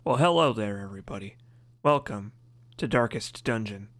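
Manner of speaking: a hint of a short, stocky cartoon dad; lightly voicing his father's cheery hello; his dad's voice. Streamer demoing his dad's voice to chat, only lightly shifted. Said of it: "and you have my dad's voice".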